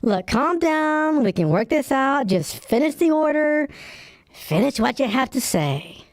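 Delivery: calming down. Acted. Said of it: "I'm sorry I yelled at you".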